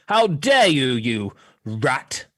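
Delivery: mock stage outrage. Hamming a theatrical insult.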